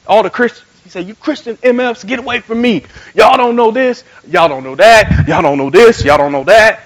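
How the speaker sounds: imitating an angry street heckler; retold ranting at passers-by; mock cussing out. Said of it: "he was down there cussing everybody out".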